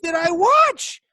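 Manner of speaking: high, loud, incredulous yell; furious fan yelling at the TV; outraged disbelief. Retold or imitated. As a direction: shout it like you can't believe what you just watched. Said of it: "I'm so angry about this match".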